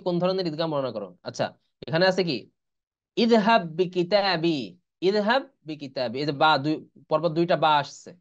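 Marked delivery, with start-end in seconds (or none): 3.2-4.6 ইযহাব বিকিতাবি drawn out, double b merged; slow Quranic chant; very slow recitation. Shown as a demonstration. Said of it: "এটা হলো ইদগামে মিসলাইন". 5.1-6.2 ইযহাব বিকিতাবি slow with doubled b; tajweed reading; slow recitation. Shown as a demonstration. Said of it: "এটা হলো ইদগামে মিসলাইন".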